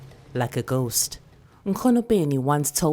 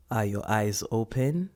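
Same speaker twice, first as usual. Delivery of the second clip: lower, soft checking question; gentle grandmother; 4 semitones lower, 3 dB quieter than usual. Acted. Grandmother checking if the child's eyes are open. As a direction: ask softly, like an elder.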